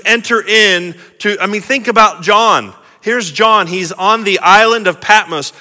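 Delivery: impassioned, insistent sermon questions; forceful preacher building his case; urgent preaching. Real, not acted. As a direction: press the congregation to imagine it.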